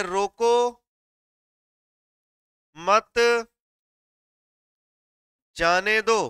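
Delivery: रोको, मत and जाने दो spoken slowly, each part followed by a long pause. Shown as a demonstration. Teacher spelling out the comma's meaning, slow with pauses. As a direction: slowly place a break after रोको and after मत. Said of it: "यहाँ विराम चिन्ह लि-, लिखा".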